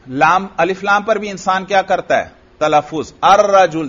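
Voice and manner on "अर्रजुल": अर्रजुल said out clearly and louder, with full Arabic sounds; pronouncing Arabic. Shown as a demonstration. Teacher showing students the article in अर्रजुल, louder Arabic enunciation. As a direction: enunciate अर्रजुल carefully for the class. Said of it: "देखो मैं तलफुज कर रहा हूं".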